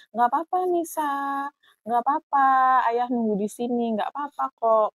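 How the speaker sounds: patient father. Retold or imitated. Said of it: "dia itu sabar banget gitu".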